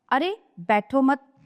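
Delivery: slow, बैठो मत grouped as one phrase; pause after मत. Shown as a demonstration. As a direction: join बैठो to मत, then stop. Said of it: "चिन्ह का केवल स्थान बदल जाने".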